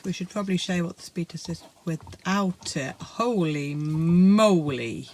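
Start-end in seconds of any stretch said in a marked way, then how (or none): 3.0-5.1 amazed. Real, not acted. Amazed at the speed test.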